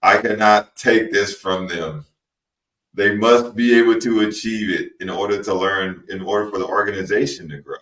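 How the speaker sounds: deliberate robotic monotone. Shown as a demonstration. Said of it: "talking in my robot voice".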